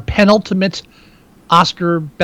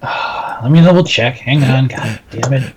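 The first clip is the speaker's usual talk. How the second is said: tinny webcam audio; 3 semitones lower, slower than usual. Real, not acted. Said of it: "like you're on your webcam".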